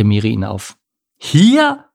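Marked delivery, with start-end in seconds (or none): 1.2-1.8 high, loud, shocked squawk; shriek. A narrator's reading. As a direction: screech it, pitch shooting way up. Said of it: "kreischte Pogo". (entsetztes Kreischen)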